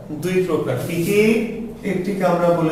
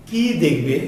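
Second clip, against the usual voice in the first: "কি" stressed and drawn out; what-question leaning on a long "কি"; slower than usual. Shown as a demonstration. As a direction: stretch the vowel of "কি", then drop to the verb. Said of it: "দীর্ঘ করে উচ্চারণ করতে হবে".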